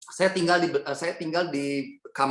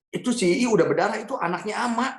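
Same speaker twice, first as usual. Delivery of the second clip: higher-pitched, insistent pleading; retold urgent protest; 5 semitones higher than usual. Retold protest to grandmother over bleeding aunt. (memprotes nenek dengan nada mendesak)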